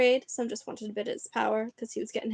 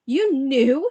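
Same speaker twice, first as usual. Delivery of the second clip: shocked disbelief; 3 semitones higher, 10 dB louder than usual. Acted. Harry learns Dursleys knew.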